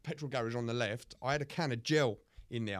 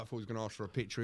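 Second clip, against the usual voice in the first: normal talking voice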